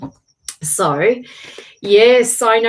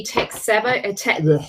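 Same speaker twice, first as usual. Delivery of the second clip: stumbling over the words, breaking off with a frustrated ugh; tongue-tied. Real, not acted. Streamer fumbling a reply to a viewer about tech, tongue-tied. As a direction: trip on the phrase and give up mid-word. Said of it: "can't speak".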